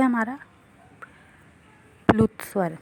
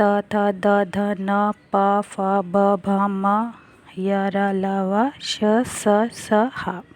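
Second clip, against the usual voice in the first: reciting consonants; much slower than usual. Shown as a demonstration. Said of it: "अब जैसे हमारे व्यंजन है".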